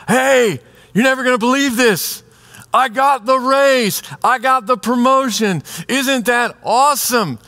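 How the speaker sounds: an excited friend bragging about the promotion, bubbly and high; excited happy friend. Acted. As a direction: gush the good news like an overjoyed friend. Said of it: "they're all happy".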